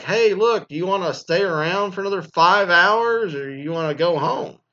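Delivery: high, loud mock in-law asking; in-laws pushing you to stay, in a high loud mock voice.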